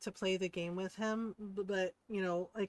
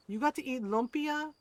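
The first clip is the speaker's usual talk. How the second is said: raised-pitch mock indignation; jealous; 6 semitones higher, 4 dB louder than usual. Mom hears her son got lumpia, jealous. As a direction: question it like an envious mom. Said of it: "he said his mom was jealous".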